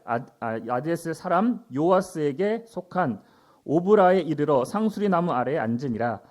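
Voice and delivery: projected Bible reading to a class; scripture reading. Acted. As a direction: read the verse out firmly. Reads scripture aloud.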